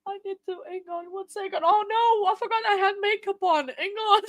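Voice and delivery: high, tearful fluster; flustered through real tears. Real, not acted. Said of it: "you guys make me cry".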